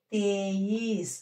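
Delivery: slow "తేయీస్" ending on a bare s; half final s. Shown as a demonstration. Teacher models the half letter, "తేయీస్" with vowelless final s. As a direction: stretch "తేయీస్" and clip off any vowel after the final s.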